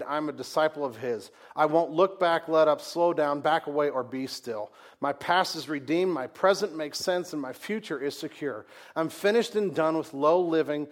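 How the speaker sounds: loud, rising proclamation, line by line; preaching at full force. Acted. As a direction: hammer each phrase like a battle cry. Reads martyr's pledge at full force.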